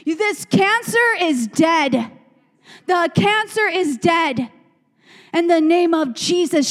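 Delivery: loud, firm rebuke of the devil, slowing on "This cancer is dead"; defiant declaration. Retold or imitated. A friend with cancer rebuking the devil, loud and defiant. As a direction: command the devil to back off. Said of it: "She's like".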